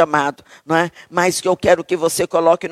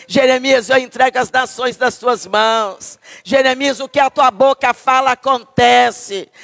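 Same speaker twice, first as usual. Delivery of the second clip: higher, declaiming voice of God; God commissioning; 3 semitones higher than usual. Retold or imitated. Preacher voices God empowering Jeremiah, proclaiming. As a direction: proclaim like God giving power, rising. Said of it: "Deus disse pra Jeremias".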